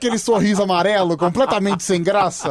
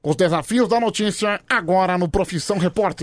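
lightly imitated TV reporter intonation; a hint of a news reporter's programme intro; mild mock-reporter delivery; Caco Barcelos. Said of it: "Até mudei minha voz, assim".

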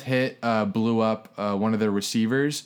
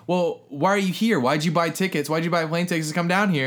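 retold challenge; 7 semitones higher than usual. Arguing back at rival fans.

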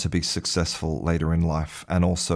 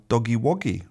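put-on baby talk; 4 semitones higher than usual. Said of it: "they might call it".

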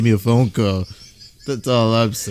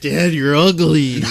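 imitating child; slower than usual. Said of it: "The direct quote from X's daughter".

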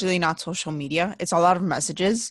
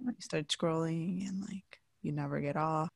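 whispered trail-off; 14 dB quieter than usual. Real, not acted. Trailing off about scrolling.

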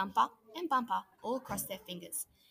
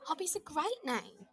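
exclaiming; 7 semitones higher, 3 dB quieter than usual. A narrator's reading. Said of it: "he exclaimed".

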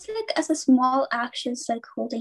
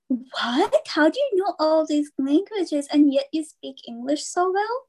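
higher-pitched imitation of amazement; mock surprise; 5 semitones higher than usual. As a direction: play the astonished questioner. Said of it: "And they get so, so surprised".

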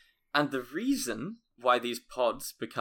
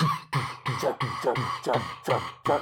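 oil rig noise; 3 dB louder than usual. Pretend. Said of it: "which is going".

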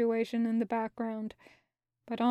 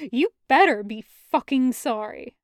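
louder angry snap; curt angry retort; snapping; 6 dB louder than usual. Acted. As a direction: snap back at him. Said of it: "Loop snaps".

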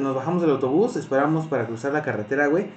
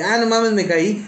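laughing disbelief; 6 semitones higher, slower than usual. Retold or imitated. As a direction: retell the fall laughing at yourself.

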